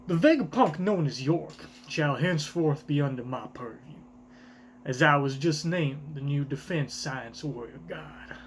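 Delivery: a breathy, hushed proclamation; whispered Garling line. Acted. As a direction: let the decree slip out in a whisper. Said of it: "is this Garland saying this?".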